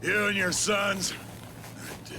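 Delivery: slow, cold pronouncement; slow menacing threat. Acted. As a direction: sentence them to death. Villain pronounces death sentence.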